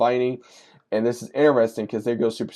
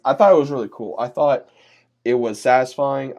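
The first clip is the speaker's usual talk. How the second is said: excited praise; 3 semitones higher, 6 dB louder than usual. Real, not acted. Praising the ending.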